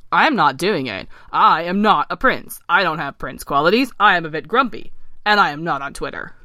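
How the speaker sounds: mildly grumpy frog; firm, emphatic protest; grumpy refusal. Acted. Ken refusing to be kissed by the princess, grumpy.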